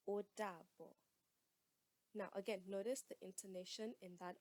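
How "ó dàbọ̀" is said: "Ó dàbọ̀" with a clear open O; Yoruba goodbye. Shown as a demonstration. Teacher models saying goodbye in Yoruba. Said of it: "To say goodbye is".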